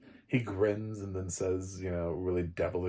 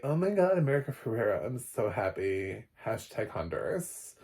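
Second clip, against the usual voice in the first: mock gushing fan, higher; 3 semitones higher than usual. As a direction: imitate an excited fan. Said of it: "everybody's like".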